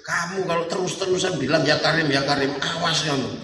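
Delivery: low mock-angry warning; comic threat to tell on him. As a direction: scold as the indignant pilgrim. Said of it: "Sambil marah".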